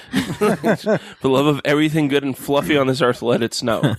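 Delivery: comic pleading through a laugh; mock plea. Songwriters in a heat wave begging for snow, mock plea. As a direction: plead half-laughing, lightly hammed up. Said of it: "It was a plea".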